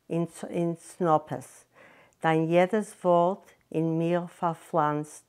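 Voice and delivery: slow, deliberate Yiddish verse; slow Yiddish poem reading, weighted phrases; poem recitation. Acted. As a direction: recite the poem line by line, drawing out the words. Recites Yiddish poem within her story.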